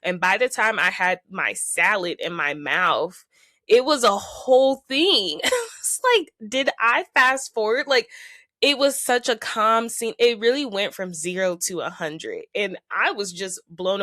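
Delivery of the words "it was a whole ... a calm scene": incredulous. Real, not acted. Shocked at a sudden blowup.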